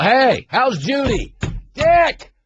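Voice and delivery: hammed-up coach sweet-talking the ref; imitating a schmoozing coach. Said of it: "He's a".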